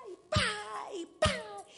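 tambourine beats. Shown as a demonstration. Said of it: "agarro mi pandero y pa".

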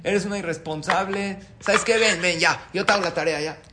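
loud, high scolding mom; angry mother. Acted. Mother scolds her irresponsible daughter about homework, loud and angry. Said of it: "Se enoja".

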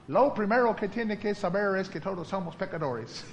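memorized line with laughter; laughing quote. Retold or imitated. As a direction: quote dad through a laugh. (citando al papá entre risas)

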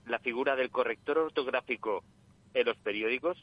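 voz de llamada telefónica; por teléfono. Real, not acted. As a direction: suena a través del teléfono. Llamada en directo al programa. (voz de oyente por teléfono)

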